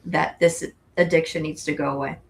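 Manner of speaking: talking through hiccups; hiccupping between words. Real, not acted. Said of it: "Excuse me, I have the hiccups".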